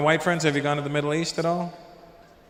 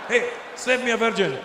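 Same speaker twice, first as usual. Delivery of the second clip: put-on higher, Arab-accented call; mock Arab accent; 6 semitones higher than usual. Calling after the departing friend, mock Arab accent.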